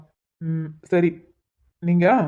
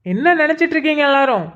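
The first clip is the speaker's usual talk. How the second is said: raised, higher voice, demanding answers; angry shouting; 4 semitones higher than usual. Acted. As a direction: storm in and yell at the police. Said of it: "யார்கிட்ட வந்து என்ன கத்திட்டு இருக்க". (கோபமான கத்தல்)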